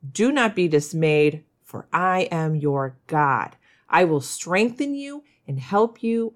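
scripture reading. Acted. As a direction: read the verse with reverence. Here it goes.

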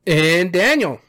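booming announcer intro. Real, not acted. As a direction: say it like a show announcer, with a slide. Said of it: "the announcer voice right there".

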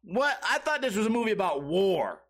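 incredulous, put-upon complaint; mock disbelief. Acting out his disbelieving reaction.

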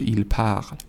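plural "parle" stopping on the L, no t heard; silent plural ending. Shown as a demonstration. Teacher warns students, plural "parle" sounds like singular, ending silent. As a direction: leave the -ent of "parle" unspoken.

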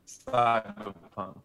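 glitchy robotic internet voice; choppy, broken-up robot voice. Real, not acted. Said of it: "your robot voice just came through".

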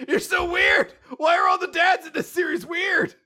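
high, loud, fed-up shout at a weird dad; mock exasperated yell. Daughter yelling at her weird dad, high and exasperated.

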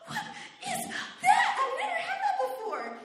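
very high, laughing disbelief; mock shocked panic. Answering John about panic attack, high laughing shock. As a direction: squeal the question in comic alarm.

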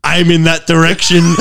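laughing through it. Retold or imitated. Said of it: "He goes".

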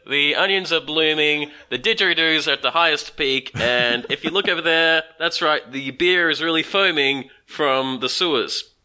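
lightly voiced TV reporter, measured delivery; a touch of American on-location reporting, stretching the phrases; American reporter in Australia. Teasing co-host imitates an American reporting from Australia, mock news report. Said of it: "sounds like an American reporting in Australia".

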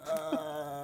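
drawn-out "uh" in imitation; mock uneasy groan. Listener imitating the maid backing out, drawn-out uneasy noise. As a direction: back away with a long mock uh. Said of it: "backs out the door like".

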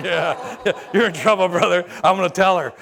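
teasing with a laugh; laughing tease. Retold or imitated. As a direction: rib your brother playfully. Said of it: "Marco's going".

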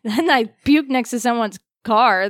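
loud. Real, not acted. Loud laughing retelling.

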